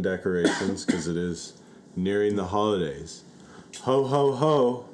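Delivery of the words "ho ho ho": loud, high Santa laugh; jolly ho ho ho. Pretend.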